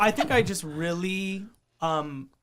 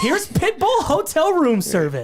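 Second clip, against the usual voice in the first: radio DJ voice; 10 semitones higher, 6 dB louder than usual. Shown as a demonstration. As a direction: boom it like a hip hop DJ. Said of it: "Let's hear it".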